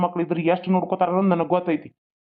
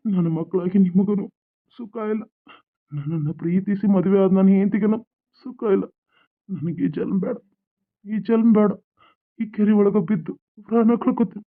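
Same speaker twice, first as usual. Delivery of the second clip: tearful despair; 3 semitones higher than usual. Acted. Father telling his daughter he will drown himself, in tearful despair. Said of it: "ಯಾಕಪ್ಪ ಅಳಕತ್ತಿ".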